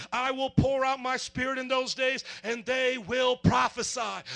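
slow, swelling preacher reading of scripture; building preacher scripture read; fervent scripture reading. Acted. Reads Joel prophecy with fervor.

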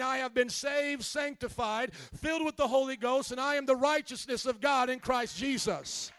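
loud preacher's proclamation; full-voiced, emphatic testimony; shouting. Real, not acted. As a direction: shout it as a bold declaration of faith. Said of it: "but I'm shouting".

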